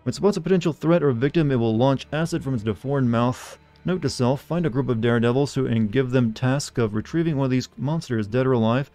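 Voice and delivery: unhurried in-game journal voice; reading game notes. Acted. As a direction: read it like a lore entry in the game. Reads in-game monster notes aloud.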